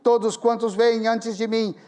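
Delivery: leitura solene em voz alta, bem projetada; leitura bíblica. Retold or imitated. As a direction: proclamar o versículo pausadamente. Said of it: "cheguei no versículo oito, que diz". (lendo a Bíblia em voz alta, com solenidade)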